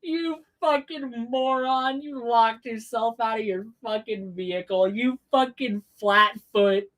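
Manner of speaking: shouting through laughter, slow; laughing insults. Real, not acted. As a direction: jeer them while cracking up. Laughing insults at bungling agents.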